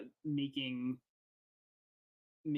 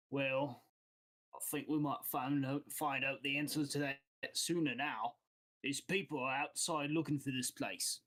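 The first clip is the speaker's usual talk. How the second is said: lightly voiced guild boss with an accent; accented boss breaking uneasy news. Game master voices guild boss.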